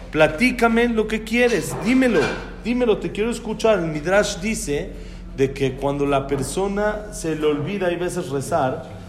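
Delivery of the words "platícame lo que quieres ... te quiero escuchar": higher-pitched, insistent loving appeal; urging, eager plea. Acted. God to his child who should pray, urging. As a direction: press the listener to open up, pitched up.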